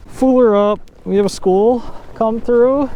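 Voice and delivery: excited shout. Real, not acted. Excited loud call.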